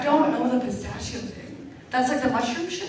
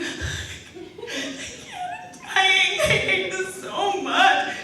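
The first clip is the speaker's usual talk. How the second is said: mock whining; 6 semitones higher than usual. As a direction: drag out a dramatic whine. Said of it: "I was like".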